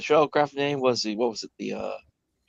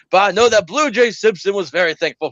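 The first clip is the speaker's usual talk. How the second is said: Foghorn Leghorn lawyer; 5 semitones higher, 3 dB louder than usual. Retold or imitated. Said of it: "Foghorn Leghorn".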